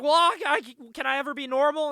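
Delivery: high, loud stammered wail; mock teen despair. Daughter pleading with her mom, loud high mock despair. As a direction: ham up the daughter's anguish.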